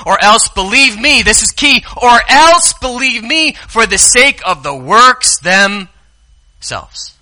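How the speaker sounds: high, very slow, drawn-out; Jesus urging believe me; emphatic plea. Acted. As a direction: stretch every word to land it. Emphatic scripture reading.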